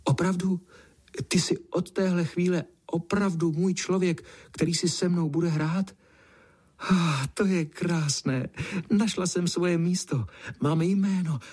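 high, joyful cat voice; overjoyed to have a home; delighted burst. Acted. Cat blurts her joy to the boy, high and delighted. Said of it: "Kočce zazářily zlaté oči a vyhrkla".

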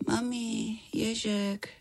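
put-on high, feverish little girl's voice; a sick child mumbling in her sleep; sleep talking. A narrator's reading. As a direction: feverish girl calling for her mum in her sleep, high and drowsy. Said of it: "Za chvilku řekla".

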